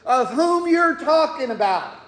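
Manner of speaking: mildly heated denial, pitch climbing; retold protest, insistent and rising; adamant denial. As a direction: deny it firmly, as if acting out an indignant man. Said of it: "to adamantly say".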